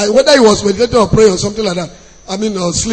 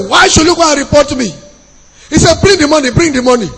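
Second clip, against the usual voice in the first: higher, insistent, rushed landlord demand; angry demand; 4 semitones higher, faster than usual. Retold or imitated. Landlord demanding the rent money from the tenant, insistently. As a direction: push it out fast and impatient, as if snatching the cash.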